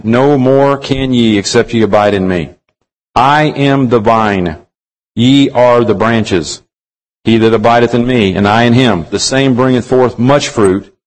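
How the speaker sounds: measured, solemn Bible reading with weighted pauses; scripture reading. Acted. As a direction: read the verses like holy words from the pulpit. Reads John fifteen aloud.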